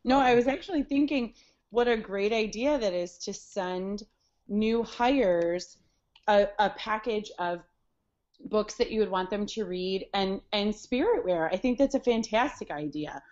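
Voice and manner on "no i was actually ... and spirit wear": talking around ice cubes; ice in mouth. Real, not acted. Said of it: "I have ice in my mouth".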